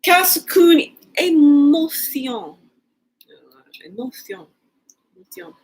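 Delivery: French. Shown as a demonstration. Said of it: "trying to say French words".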